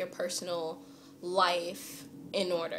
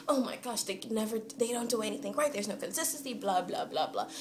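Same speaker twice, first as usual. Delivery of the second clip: mock complaining; 2 semitones higher than usual. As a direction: reel off complaints, tailing into blahs. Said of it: "there's just stuff to complain about".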